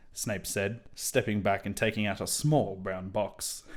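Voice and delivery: ordinary delivery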